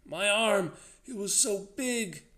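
very high, loud, panicked wail; frantic, frightened cry; whimpering terror. A narrator's reading. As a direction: let the voice run up into terror. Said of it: "His voice ran up into whimpering terror".

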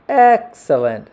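drawn-out, high and loud delight; slow, high, emphatic approval of a story dog. A narrator's reading. Delighted dog praises the pencil.

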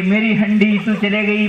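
mock loud wailing. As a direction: wail it like a child crying for a toy. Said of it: "जोर जोर से रोने लगे".

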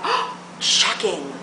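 gasped, slow mock astonishment; gasp, then stretch out the shock; hammed-up shocked reaction. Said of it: "it was like".

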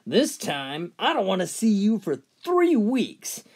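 teacher yelling her second warning. Acted. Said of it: "again she yells".

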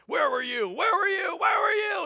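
rising, escalating mock shout; God. God interrogates Job.

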